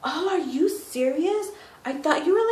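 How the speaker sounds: lilting high impression; imitating the guy. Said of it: "he was like".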